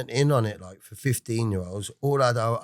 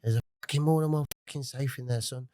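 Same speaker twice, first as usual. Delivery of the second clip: fast, lightly attempted Pompey accent of his dad; a hint of his dad's Pompey accent, quick; a half-done Pompey accent; 3 semitones higher, 4 dB quieter, faster than usual. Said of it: "I can't do the accent".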